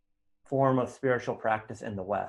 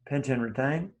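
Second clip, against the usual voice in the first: soft, brief cues between long silences; quietly pace each breath, a touch of meditation voice; guided breathing; 6 semitones lower, 5 dB quieter than usual. Real, not acted. Teacher counting students through nostril breathing, soft meditation guiding.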